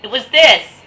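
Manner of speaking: mock indignant shout from a viewer; annoyed viewer. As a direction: snap at him like a know-it-all viewer. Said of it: "somebody out there is watching and saying".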